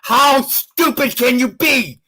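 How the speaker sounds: angry ranting shout; loud sharp voice. Real, not acted. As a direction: bark it out in anger. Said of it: "Why are you so angry?".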